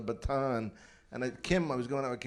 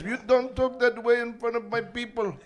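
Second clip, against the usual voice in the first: offended scolding; 8 semitones higher, 4 dB louder than usual. Retold or imitated. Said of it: "He goes".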